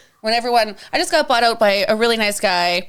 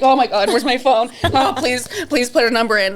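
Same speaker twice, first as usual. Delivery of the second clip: flustered. Retold or imitated. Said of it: "He's, like, shaking".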